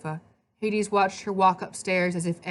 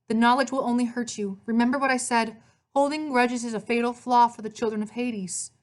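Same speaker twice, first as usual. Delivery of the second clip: put-on higher, earnest girl's voice; ghostly sister, cautioning; 6 semitones higher than usual. Dead sister to her brother about grudges, cautioning.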